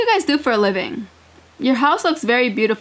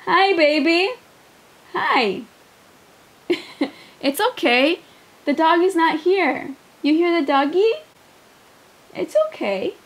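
soothing pet talk; 4 semitones higher than usual. Real, not acted. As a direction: gently reassure an anxious pet. Soothing the streamer's own dog.

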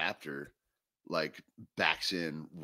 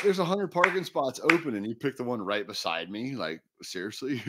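much higher and louder, fed-up protest; retold exasperated complaint; 7 semitones higher, 5 dB louder than usual. Telling Sheckler off over the parking spot, exasperated and loud. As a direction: act out the rant at the skateboarder.

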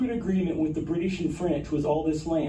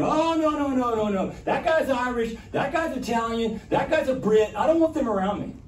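higher, insistent pretend bigot sorting people; hammed-up fussy refusal, higher; mock picky objector; 6 semitones higher than usual. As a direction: play a narrow-minded voice rejecting neighbours. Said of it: "I'm going".

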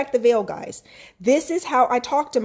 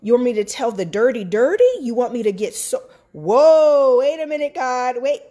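rising, rushed alarm at the idea; half-acted shock at God's request; retold panicked disbelief; 2 semitones higher than usual. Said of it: "This book was almost like".

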